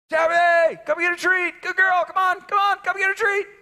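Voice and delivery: high coaxing call; high sing-song dog call; calling from the porch. Retold or imitated. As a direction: coax the dog home loudly. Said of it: "I'd yell".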